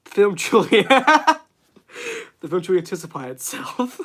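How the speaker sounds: lightly voiced cartoon dad, breaking into a laugh; a weak stab at the cartoon dad; bad Peter Griffin. Streamer jokes about a film in a mock cartoon dad voice. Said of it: "That was the worst Peter Griffin, voice".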